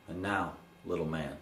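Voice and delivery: hushed, low ceremonial close; solemn, tender handover. Acted. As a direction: drop low and quiet, as if handing a boy an heirloom.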